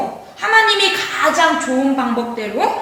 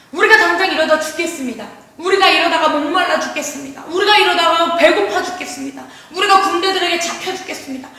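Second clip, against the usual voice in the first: acted string of complaints, slightly raised pitch; 원망불평; 3 semitones higher, faster than usual. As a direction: grumble as the people, mildly hammed-up. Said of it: "이스라엘 백성들이 원망불평합니다". (백성들처럼 투덜대는 연기)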